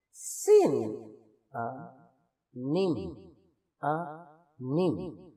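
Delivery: سن آ نم split into three slow syllables; syllable demo. Shown as a demonstration. Teacher breaking a three syllable word into slow syllables. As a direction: spell out سن آ نم beat by beat. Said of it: "آگے دیکھتے ہیں three syllable".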